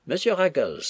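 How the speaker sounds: high-pitched exasperated call; exasperated appeal. A narrator's reading. Mistress appealing to Ruggles against lackey, exasperated. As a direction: appeal to him by name, voice lifted. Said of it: "au comble de l'exaspération".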